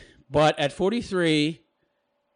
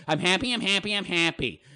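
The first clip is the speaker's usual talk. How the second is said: softly chanted, half-hearted self-hypnosis; mock mantra; 4 dB quieter than usual. Mocking her mantra, softly chanted. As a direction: murmur it like a mantra. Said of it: "like a fucking mantra".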